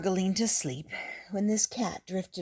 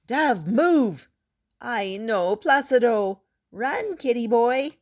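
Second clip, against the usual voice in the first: high, loud panicked warnings; alarmed shouting; 6 semitones higher, 7 dB louder than usual. A narrator's reading. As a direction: yell to save the cat. Everyone shouting at cat in road.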